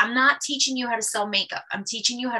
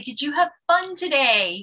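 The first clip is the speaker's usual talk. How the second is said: higher, slower, cheerful "Did you have fun today?"; bright upbeat question; 5 semitones higher, 3 dB louder than usual. Shown as a demonstration. Upbeat friendly consultant question. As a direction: consultant cheerfully asks a client at appointment end. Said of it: "you say".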